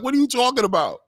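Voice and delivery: mock disbelief, up high; incredulous. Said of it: "They were like".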